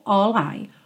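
"all I" run together as one; linked words. Shown as a demonstration. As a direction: glide "all" straight into "I".

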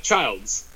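put-on Childs said like "child" plus s; long-i pronunciation. Shown as a demonstration. Host answering how it's spelled, Childs with long i. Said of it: "like you're a child".

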